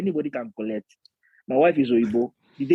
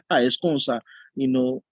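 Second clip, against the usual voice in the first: lightly put-on Yoruba accent. Pretending to question the pastor, light Yoruba accent. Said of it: "I'll say it in a Yoruba accent".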